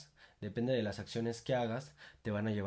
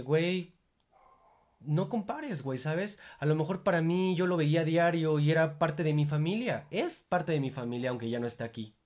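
emphatic retort; 4 semitones higher, 4 dB louder than usual. Pretend. Heated reply defending his dog.

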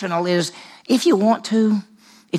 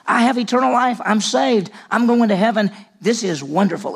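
smug believer; 5 semitones higher than usual. Retold or imitated. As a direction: play the content believer, pitched up. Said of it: "And so they say".

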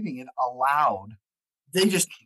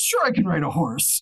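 higher, breezily overconfident bluff; mock confidence; 5 semitones higher, 4 dB louder than usual. Actor answering at a casting, mock confidence. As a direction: play an actor claiming a skill they lack.

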